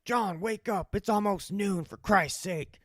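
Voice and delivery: loud, high wake-up call; exasperated uncle. Retold or imitated. Uncle shouting his nephew awake at noon, exasperated. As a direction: roust him out of bed, fed up. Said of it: "He's like".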